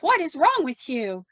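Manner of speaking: high-pitched incredulous question; baffled demand. Retold or imitated. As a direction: imitate a baffled wife, pitch jumping up. Wife baffled by husband.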